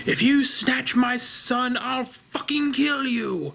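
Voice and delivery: mock yell. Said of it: "starts yelling at the Babadook".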